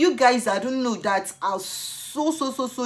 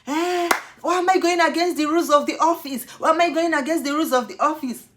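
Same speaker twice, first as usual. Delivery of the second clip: high, loud officer shout; mock shout; 8 semitones higher, 5 dB louder than usual. Officer shouting at her about rules, loud and high. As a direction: yell it back at her. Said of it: "He was shouting".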